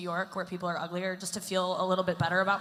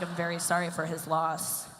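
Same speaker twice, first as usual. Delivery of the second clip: deadpan condolence; 3 semitones lower than usual. Acted. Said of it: "have a resting bitch face".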